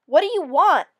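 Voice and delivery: loud startled shout; cry out. Acted. Lost man backing away from a bold hare, startled cry. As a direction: call out in alarm, backing away. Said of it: "I cried out".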